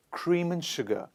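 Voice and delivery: AND reduced to "un", linked to cream; natural weak and. Shown as a demonstration. Teacher models natural speech for learners, AND weakened to "un". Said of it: "we say cream and sugar".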